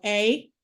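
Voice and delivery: "A" said as the Canadian tag "eh"; "A" as a long "ay" sound, Canadian-style. Shown as a demonstration. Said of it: "certain things Canadians are known for".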